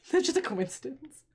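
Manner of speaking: repeating it through a laugh. Real, not acted. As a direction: say it while laughing.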